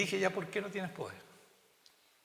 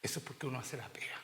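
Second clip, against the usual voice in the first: whisper; 3 semitones lower, 5 dB quieter, faster than usual. Real, not acted. Confiding aside in sermon.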